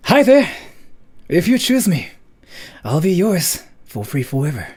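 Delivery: cheerful big-brother greeting; onii-chan voice. Shown as a demonstration. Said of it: "Oni-chan kind of character".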